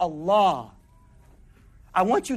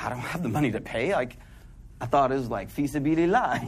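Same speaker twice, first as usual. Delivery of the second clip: downcast; 7 semitones lower, 4 dB quieter, faster than usual. Retold or imitated. Retold despair over tuition money.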